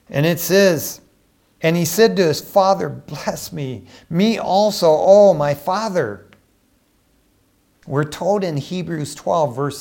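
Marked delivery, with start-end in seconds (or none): 2.9-6.3 acted wailing plea. Esau begs his father for a blessing, acted wail. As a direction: stretch the last cry out, a mock wail. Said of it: "he just wailed out".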